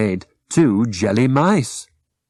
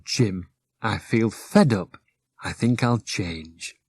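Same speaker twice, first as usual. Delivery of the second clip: fed up; 5 dB quieter, slower than usual. Acted. Rosie fed up.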